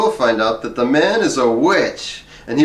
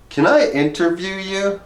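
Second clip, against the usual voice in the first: eager ask; 8 semitones higher than usual. Retold or imitated. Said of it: "I say, waving my tape recorder".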